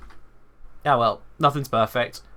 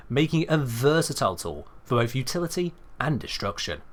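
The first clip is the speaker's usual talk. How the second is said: measured, brisk video-guide read; reading a script; 4 dB quieter than usual. Shown as a demonstration. Streamer demos his scripted video voice for chat. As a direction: read it like a polished tutorial voiceover. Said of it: "let's give myself something to read".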